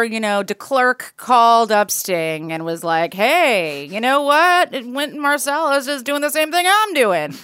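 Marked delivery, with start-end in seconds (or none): 3.1-7.3 weak imitation of a South African accent; lightly imitated South African voice. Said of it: "Was that your South African accent?".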